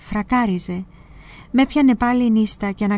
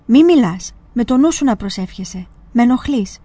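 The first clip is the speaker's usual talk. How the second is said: loud sharp order to be silent; stern hush; 2 semitones higher, 4 dB louder than usual. Acted. Old monk telling the novice to pray silently, loud stern order. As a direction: snap at him to stop talking.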